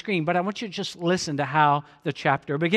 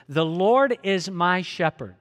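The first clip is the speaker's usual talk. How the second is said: reading the verse aloud. Shown as a demonstration. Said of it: "read this with me".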